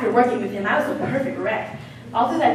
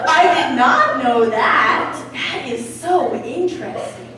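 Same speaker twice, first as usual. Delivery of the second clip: mock interest; slower than usual. Feigned interest, slow.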